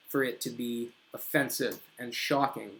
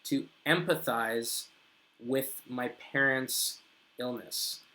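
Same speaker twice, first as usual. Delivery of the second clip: slow model phrase; 4 dB quieter, slower than usual. Shown as a demonstration. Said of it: "You want to use the verb there".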